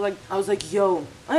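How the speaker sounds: speaking through fingers; muffled behind hand; hand over mouth. Real, not acted. Seen 1: Fingers cover mouth around 1.7–2.9s while talking; eating between bites.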